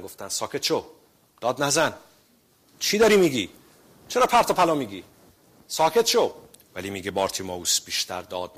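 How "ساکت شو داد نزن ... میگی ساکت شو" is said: rebuking crowd. Retold or imitated. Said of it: "عتابش کردن".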